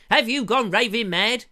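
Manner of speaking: a hint of Tony Hancock; Hancock impression. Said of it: "Hancock's half hour".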